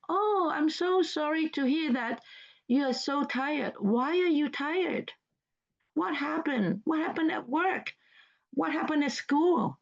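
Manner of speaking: sympathetic, concerned questioning; caring concern. Shown as a demonstration. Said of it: "showing your care and concern".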